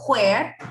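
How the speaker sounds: mock the wrong G start on "where". Shown as a demonstration. Teacher contrasts a wrong hard G where for students. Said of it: "no se pronuncia como una G".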